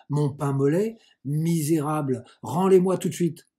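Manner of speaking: indignation building to a loud order; furious scolding, rising at the end; outraged demand. Acted. Cousin enraged at her eaten breakfast.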